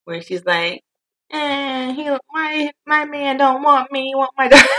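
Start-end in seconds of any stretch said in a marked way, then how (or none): 1.3-4.7 high, slow mock wail through tears; half-laughing mock crying wail; imitating Precious sobbing. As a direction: blubber it out like a wrecked girl. Imitating Precious crying over man.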